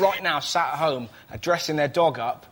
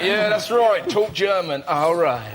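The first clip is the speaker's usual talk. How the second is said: lightly acted Mosley; 4 dB louder, slower than usual. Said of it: "He was like".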